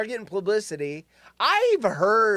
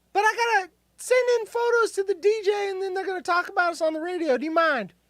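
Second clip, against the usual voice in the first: put-on woman voice, pitched higher; 13 semitones higher than usual. Role-playing a wife asking her husband at dinner: put-on woman voice. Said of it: "you have a better woman voice".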